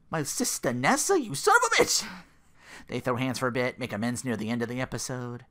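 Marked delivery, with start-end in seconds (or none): 0.1-2.1 mock furious shout. Retold fight at the club.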